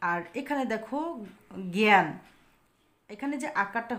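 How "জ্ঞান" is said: জ্ঞান said as 'gyan', vowel as in 'cat'; loud, clear 'gæn' for জ্ঞান. Shown as a demonstration. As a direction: model জ্ঞান with an 'æ' sound. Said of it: "এই আয়ের উচ্চারণ কেমন হয়েছে?".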